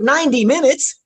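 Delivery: high, loud incredulous question; shocked disbelief. Retold or imitated. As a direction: echo it back, aghast and loud. Own shocked echo of it.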